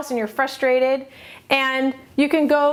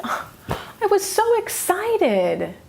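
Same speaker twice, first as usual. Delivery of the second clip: very slow, higher, put-on sad voice with a laugh; mock disappointed; 7 semitones higher, much slower than usual. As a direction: stretch it out in self-mocking disappointment.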